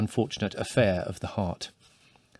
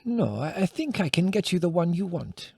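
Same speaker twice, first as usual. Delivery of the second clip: exclaimed; 7 semitones higher than usual. A narrator's reading. Old village woman startled by the request, exclaiming. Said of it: "she said".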